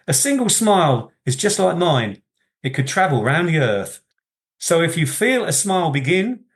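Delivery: light, sing-song recital of a comic verse; poem reading. Acted. The speaker reads a Spike Milligan poem to the host, cheerful lilt.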